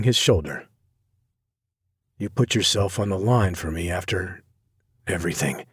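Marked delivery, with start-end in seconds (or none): 2.2-5.6 soft, falling, voice breaking; quiet cracking thanks. Acted. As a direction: let the voice break with gratitude. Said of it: "His voice cracks".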